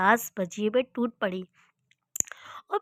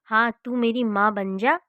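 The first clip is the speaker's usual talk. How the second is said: sulky retort; 5 dB louder than usual. Acted. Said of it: "सास मुंह बनाते हुए".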